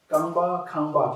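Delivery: kangba then kangba with different k sounds; two kangba sounds. Shown as a demonstration. Teacher models the kangba pair for students. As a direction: contrast the two Tibetan k sounds. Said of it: "Can you hear the difference".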